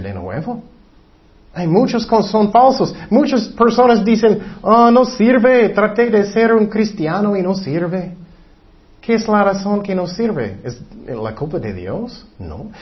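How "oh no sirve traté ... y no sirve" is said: mimicked complainer. Mimics people giving up on faith.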